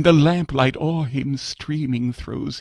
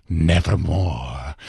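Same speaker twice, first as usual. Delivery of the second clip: raven's reply; 5 semitones lower, slower than usual. Acted. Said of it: "Quoth the Raven".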